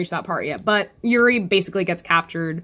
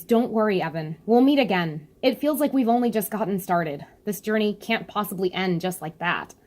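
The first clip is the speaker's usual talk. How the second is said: Yuri voice. Retold or imitated. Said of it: "And Yuri responds".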